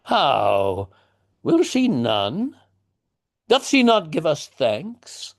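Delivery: father turning coarse and indignant; blunt tradesman. Acted. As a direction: bark them out like a peasant master. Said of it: "he starts to talk in shorter phrases".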